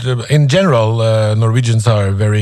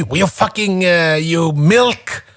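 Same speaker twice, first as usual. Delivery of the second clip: mock weak insult; 6 semitones higher, slower than usual. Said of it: "You could say".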